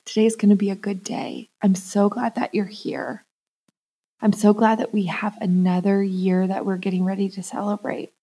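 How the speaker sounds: soft, hushed birthday wishes; cuddling tenderness. Retold or imitated. Waking her inner child on her birthday, softly loving. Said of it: "cuddling her and giggling with her".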